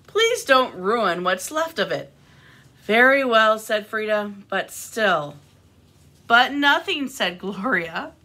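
animated picture-book reading with lifted character lines; expressive storytime delivery; reading to children. A narrator's reading. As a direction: read a story aloud to little listeners.

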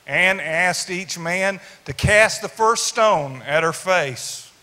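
rhythmic poem recitation; cowboy poetry. Acted.

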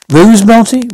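sharp rising disbelief on Marty; mocking incredulous echo. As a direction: scoff at the word, pitch jumping up. Del echoes Marty's word mockingly.

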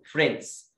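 one-syllable فريندز, D swallowed; faint D. Shown as a demonstration. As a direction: say فريندز with the D barely showing. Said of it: "الدي مش بنظهرها قوي".

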